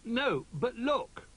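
high, drawn-out little bear cry; excited cry. A narrator's reading. Little Bear pointing out the trapdoor, excited cry. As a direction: cry it out, pitched right up. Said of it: "cried Little Bear".

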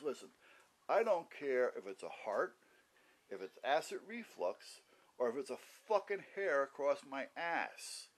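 a touch of retold anger, slow and firm; telling the receptionist off, mildly angry and deliberate; pissed off. Telling off the receptionist about his pain, firm and slow. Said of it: "Then I got a little pissed".

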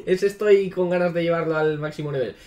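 talking through a real laugh. Real, not acted. Streamer admitting he wants Mineta, laughing. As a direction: let the laugh run into the words.

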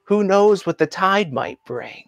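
an understated movie impersonation with long pauses; Tom Hanks. Acted. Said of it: "I'll do my best Tom Hanks impersonation".

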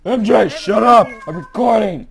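high, loud telling-off; shouted. Real, not acted. Shouting at MJ for interrupting the recording, exasperated yell.

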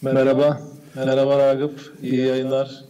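echoing phone line. Real, not acted. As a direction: voice with an echo. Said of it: "Koray, yankı yapıyor sesin".

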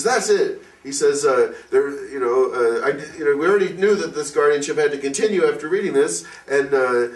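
worked-up yell, pitch way up. Retold or imitated. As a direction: jump up and demand an answer. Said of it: "he starts yelling".

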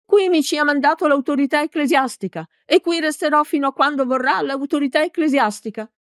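high-pitched, shrill defiance; little priest's shrill tirade; strident protest. A narrator's reading. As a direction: stand your ground in a high, indignant voice. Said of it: "gridò con voce stridula".

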